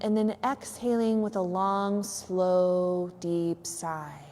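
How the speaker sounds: unhurried relaxation guide with long pauses; measured yoga nidra guidance; guided meditation. Real, not acted. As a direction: lead listeners gently into stillness, leaving space between phrases.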